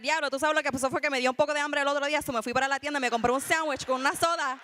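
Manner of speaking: fast, run-together Spanish storytelling; rapid Caribbean Spanish. Shown as a demonstration. Showing how they'd tell it themself, rapid casual Spanish. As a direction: rattle it off in one rush. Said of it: "if I'm trying to talk about".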